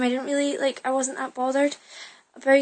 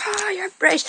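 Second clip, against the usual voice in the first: mock surprise; 9 semitones higher, 4 dB louder than usual. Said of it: "they were like".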